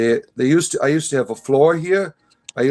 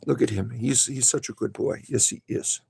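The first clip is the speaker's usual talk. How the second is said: tender pet talk; 2 semitones lower, 7 dB quieter than usual. Real, not acted. Owner praising his good boy bunny, tender and soft. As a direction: coo softly over a beloved pet.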